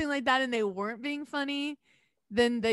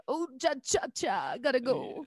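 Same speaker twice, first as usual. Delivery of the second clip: awkward escape; 2 semitones higher than usual. Pretend. Fleeing gushy date.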